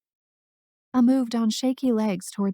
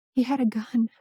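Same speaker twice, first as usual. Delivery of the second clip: breathless whispered fear; barely voiced, scared whisper; 2 semitones higher than usual. A narrator's reading. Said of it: "coming out in a whisper now".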